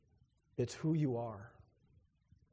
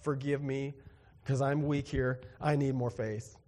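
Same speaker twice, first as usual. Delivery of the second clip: sincere prayer. Real, not acted. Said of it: "I say it with sincerity".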